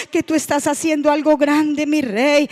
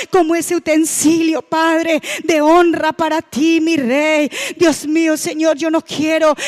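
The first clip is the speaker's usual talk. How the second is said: leading the church in fervent spoken prayer, pleading and praising. Acted. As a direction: pray aloud over the congregation with fervour. Leads fervent congregational prayer. (oración ferviente dirigiendo a la iglesia)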